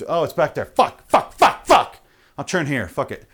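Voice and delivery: mock panicked swearing at a missed turn; frustrated cursing. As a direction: curse under the breath, then spike. Frustrated driver missing turn.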